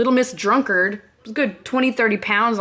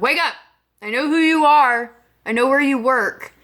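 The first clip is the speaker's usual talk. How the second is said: raised, higher-pitched urgent retelling; mildly raised wake-up call; rousing someone; 5 semitones higher, 3 dB louder than usual. Retold or imitated. Trying to rouse unconscious girl.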